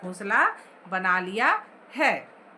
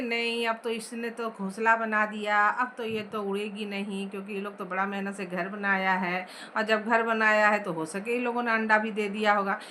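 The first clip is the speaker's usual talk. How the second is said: softer, gentle retelling of the mother's words; soft-hearted mother; 4 semitones lower than usual. Retold or imitated. Teacher retelling the soft-hearted mother's plea, gently and softly. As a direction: soften it like a kind-hearted mother pleading for the birds. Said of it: "soft दिल की होती हैं".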